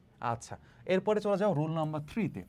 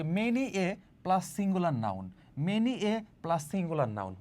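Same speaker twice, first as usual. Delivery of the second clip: slow rule recital; much slower than usual. Shown as a demonstration. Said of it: "সূত্রটা কি বললো".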